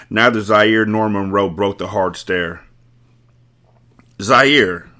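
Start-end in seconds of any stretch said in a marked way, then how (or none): 4.2-4.9 louder call, cutting through the tension; calling his name. Acted. Wife calls her husband to stop the standoff, loud call. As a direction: call out to break the stare. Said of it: "Breeze called his name".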